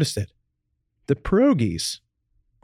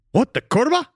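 screamed; 9 semitones higher than usual. Acted. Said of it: "he screamed".

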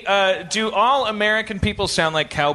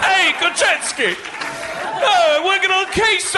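put-on British accent; 8 semitones higher than usual. A friend parodies the New York bit in a high British accent. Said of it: "most British accent I've ever heard".

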